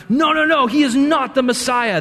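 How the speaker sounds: mock alarm, pushing back hard; panicked Pharisee.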